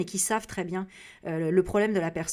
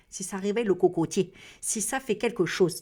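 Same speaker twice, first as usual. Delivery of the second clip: silly voice; 3 dB louder than usual. Pretend. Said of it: "je sais pas pourquoi je parle comme ça".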